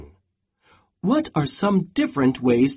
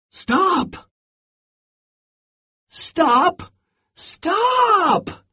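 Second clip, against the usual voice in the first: exclaimed stop; 14 semitones higher, much slower than usual. Acted. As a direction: beg Goat to stop, each cry climbing. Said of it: "exclaimed Pig".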